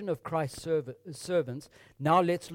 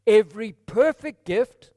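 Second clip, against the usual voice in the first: 1 loud proclamation; 4 semitones higher, 12 dB louder than usual. Acted. Loud preaching emphasis.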